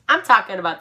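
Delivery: giggling while reading; laughing through words. Real, not acted. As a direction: read it while cracking up. Reading own cringe fanfic.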